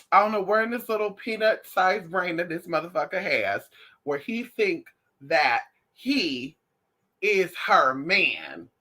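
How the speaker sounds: slowed disbelief. Real, not acted. Mocking the dog's crush.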